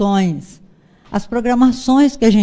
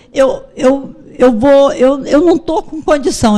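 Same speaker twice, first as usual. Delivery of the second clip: son choking up; 3 semitones higher than usual. Retold or imitated. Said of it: "Eu vou chorar muito pra eu te dizer isso".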